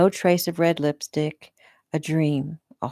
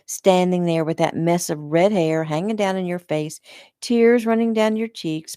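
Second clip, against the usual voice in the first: disgusted. Acted. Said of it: "disgust dripping from her voice".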